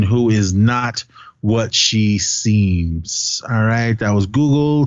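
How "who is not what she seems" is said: very slow, drawn-out reading; slow teaser read; drawn-out synopsis read. Acted. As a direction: stretch out each word of the teaser.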